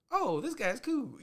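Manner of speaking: high, slow, loud mock voice; imitated friendly reply. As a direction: play the won-over stranger, up high. Imitating people's changed reaction.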